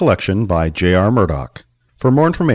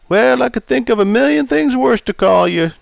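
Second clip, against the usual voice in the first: put-on raised, jovial old customer; 14 semitones higher, 4 dB louder than usual. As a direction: play Charlie, teasing. Charlie teasing.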